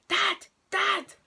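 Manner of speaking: two high, urgent shouts, put on; mock scream for dad. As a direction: re-enact a scream to summon dad. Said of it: "and I screamed".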